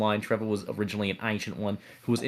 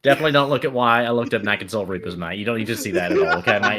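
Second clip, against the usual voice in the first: rapid louder no-no-no; panicked denial; 2 semitones higher, 5 dB louder than usual. Acted. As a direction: scramble to stop them looking.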